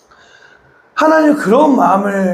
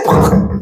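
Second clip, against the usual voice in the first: dabbing noise. Retold or imitated. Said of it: "그러면서".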